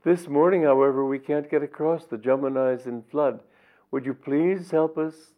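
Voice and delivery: eager pleading. Acted. Gopis pleading with Vyasa at the flooded river, eager high voice. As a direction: beg him sweetly for a favour. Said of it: "they cried".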